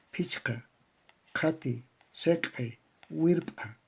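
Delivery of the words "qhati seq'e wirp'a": "qhati" with a breathy aspirated qh, "seq'e" and "wirp'a" with sharp glottal pops; aspirated and glottal consonants. Shown as a demonstration. Teacher modelling Quechua aspirated and glottal sounds for students. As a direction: spit out the aspirated and ejective stops clearly. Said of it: "Ahí aparecen estas aspiradas y glotales".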